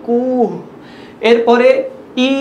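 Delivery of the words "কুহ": কুহ with the u drawn long; কুহ said with a stretched u; long u vowel. Shown as a demonstration. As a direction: lengthen the u in কুহ. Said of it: "এভাবে বুলান্দ বা লম্বা করে করতে হবে".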